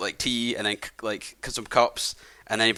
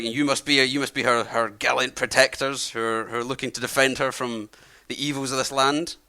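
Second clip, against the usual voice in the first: put-on friendly old man. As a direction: play a chatty old host welcoming travellers. Old man addresses protectors.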